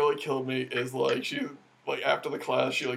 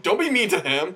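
mock yell, pitched up high; imitated yell; 7 semitones higher, 4 dB louder than usual. Classmate yelling across the room in defense, retold yell. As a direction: call it out like a protective classmate. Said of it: "from across the room she just yelled".

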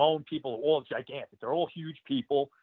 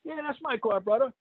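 much higher, mock local voice; hammed-up local claiming the car; local guy; 10 semitones higher than usual. The local guy answers Duggan about his car, voiced much higher and hammed up. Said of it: "And the guy's like".

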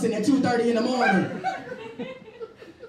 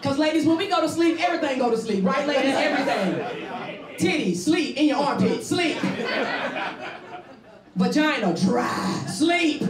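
excited comic list; 5 semitones higher than usual. Acted. Comic list building to punchline.

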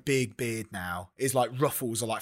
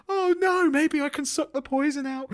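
very high, loud damsel voice; hammed-up Juliet; 5 dB louder than usual. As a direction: overact distress in a piping stage falsetto. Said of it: "she's like".

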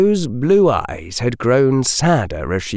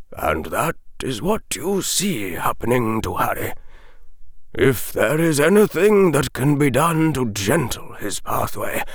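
put-on measured, grave old wizard; 4 semitones higher, 3 dB quieter than usual. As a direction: speak as a wise old headmaster. Dumbledore's long speech.

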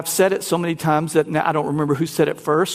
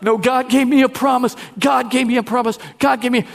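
insistent believer; 6 semitones higher, faster than usual. Retold or imitated. Mimicking impatient believer's insistence.

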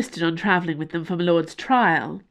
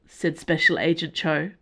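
ordinary delivery

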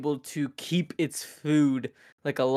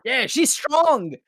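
sarcastic praise; 8 semitones higher, slower than usual. Pretend.

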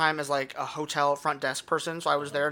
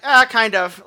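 groggy and pissy; 7 semitones higher, 13 dB louder, slower than usual. Retold or imitated. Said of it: "groggy and pissy".

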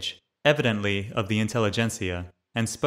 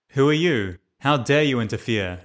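a louder, angry challenge; shouting; 2 semitones higher, 5 dB louder than usual. Acted. Chekist in a leather cap shouting at the narrator, angry challenge. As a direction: bark at the stranger for meddling. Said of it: "a man in a leather cap shouted at me".

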